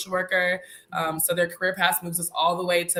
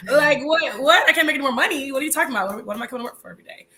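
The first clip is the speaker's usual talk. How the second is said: mock disbelief; 6 semitones higher, 4 dB louder, faster than usual. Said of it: "I was like".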